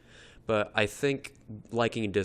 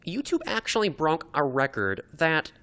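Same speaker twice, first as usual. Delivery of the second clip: lightly put-on corporate spokeswoman, higher pitch; a hint of a higher-voiced executive statement; imitating Susan; 3 semitones higher than usual. Executive apologizing for YouTube Rewind, mock official statement. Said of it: "she was like".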